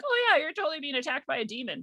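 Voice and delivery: breezy, high, as if it's normal; matter-of-fact parents. Retold or imitated. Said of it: "And they're like".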